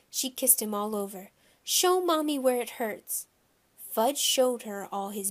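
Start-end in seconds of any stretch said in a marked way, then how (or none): 1.6-3.3 higher, coddling mommy voice; doting mother talking to her baby. A narrator's reading. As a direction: coax a hurt little one. Mother comforting hurt toddler.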